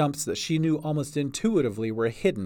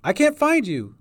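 high, loud worried call; anxious raised voice; 12 semitones higher, 7 dB louder than usual. A narrator's reading. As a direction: call across the trees, searching. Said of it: "she called".

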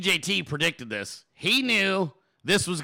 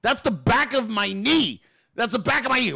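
hammed-up shock at a bizarre mistake; rising mock outrage; mock outraged disbelief; 5 semitones higher than usual. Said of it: "Your whole shit's gonna be like".

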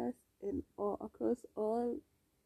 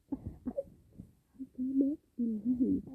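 slow disbelief; 4 semitones higher, 4 dB louder, much slower than usual. Real, not acted. Mock disbelief.

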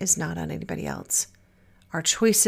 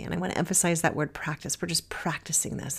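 softly whispered emphasis, much quieter; whispered aside; 2 semitones lower, 7 dB quieter, faster than usual. Real, not acted. Host stressing practice to listeners in a hushed whisper. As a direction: drop to a confiding whisper.

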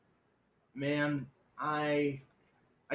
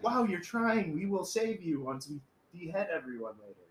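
mock patronizing; 5 semitones higher than usual. Liberal Muslims mocking his greeting, patronizing. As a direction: praise him sweetly, then the dark turn. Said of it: "Muslims that are like".

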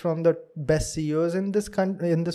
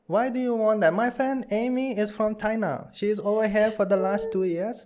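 higher-pitched put-on Chinese accent; 5 semitones higher than usual. Shown as a demonstration. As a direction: show off an imitated Chinese accent. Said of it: "he'll do the China accent".

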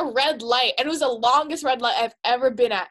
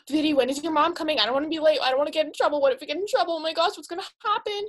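higher-pitched anxious babble, reenacted; retold panic; 4 semitones higher, faster than usual. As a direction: act out panicking at a friend. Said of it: "I was breaking down".

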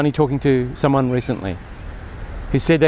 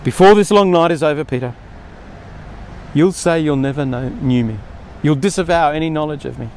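urgent warning. Retold or imitated. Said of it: "Jesus' words".

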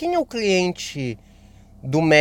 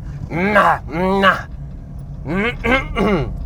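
dad-style throat clearing. Shown as a demonstration. Podcaster showing the habit mother forbade, noisy throat clearing. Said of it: "sempre que eu fazia algum som de pai".

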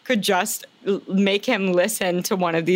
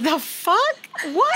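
mock outrage; 11 semitones higher, slower than usual. Quoting her own outrage.

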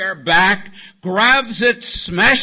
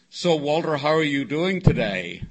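retold greeting, mildly condescending and lower-pitched; patronizing; 3 semitones lower than usual. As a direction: talk down to him a little, lightly acted. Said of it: "Kind of patronizing".

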